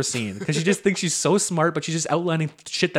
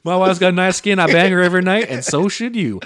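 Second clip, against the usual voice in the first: Doctor Phil; 2 semitones higher, 4 dB louder than usual. Retold or imitated. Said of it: "Hi, I'm Doctor Phil".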